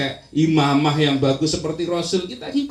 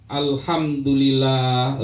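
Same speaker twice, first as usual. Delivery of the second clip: slow grateful dhikr; 3 semitones lower, much slower than usual. Shown as a demonstration.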